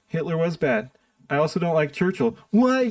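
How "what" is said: slow drawn-out mock gasp of offense; mock shocked outrage. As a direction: parody a scandalized critic, stretching it out. Mocking offended critics.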